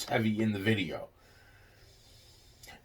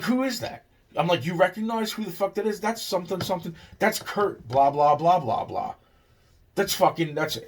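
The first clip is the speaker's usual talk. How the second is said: pitched way up, quick, incredulous; high excited disbelief; 7 semitones higher than usual. Retold or imitated. Retelling the stunned reaction at the friend's computer, high and excited. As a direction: voice jumps high, rattling it off fast.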